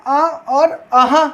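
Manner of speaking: slow classroom sound demo; drawn-out sounds. Shown as a demonstration. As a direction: stretch अ and अह slowly. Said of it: "हमारे पास में क्या है".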